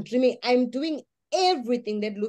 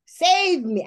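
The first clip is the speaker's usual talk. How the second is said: retold crying plea; slower than usual. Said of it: "I'm crying".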